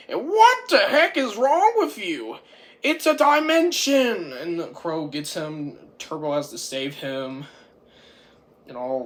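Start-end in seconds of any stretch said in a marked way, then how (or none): 0.1-4.3 high, loud indignant rant; pissed off. Retold or imitated. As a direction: act out an exasperated outburst. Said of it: "like, all pissed".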